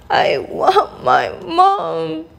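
high, slow wail; storybook scream without much volume; mock scream. A narrator's reading. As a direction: cry out high and stretched, like a frightened princess. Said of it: "she screamed".

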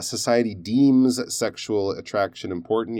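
deems with a long EE inside the sentence; long E sound. Shown as a demonstration. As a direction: give deems its full ee vowel. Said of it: "You need that long E sound there".

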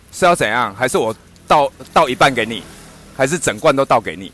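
大声逼问要倒多少辣椒; pushy vendor. Retold or imitated. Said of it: "他这样跟我讲". (模仿老板大声逼问)

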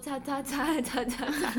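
slow, drawn-out listing of names; a girl proudly listing admirers, slowly; slow counting. Retold or imitated. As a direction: count them off one by one.

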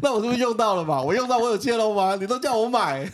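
agitated protest away from the mic; far from mic. Real, not acted. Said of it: "你离麦克风太远了，你冷静一点".

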